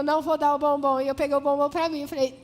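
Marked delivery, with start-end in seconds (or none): 0.0-1.0 stubborn loud refusal. Retold or imitated.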